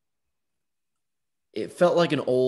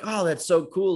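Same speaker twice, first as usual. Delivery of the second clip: mock enthusiastic; 7 semitones higher than usual. Firefighter neighbour.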